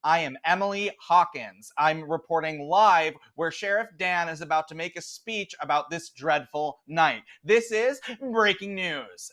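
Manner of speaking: bright Southern reporter going live; Southern accent. Acted. Anchor Emily reports live, Southern accent. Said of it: "I can only do Southern".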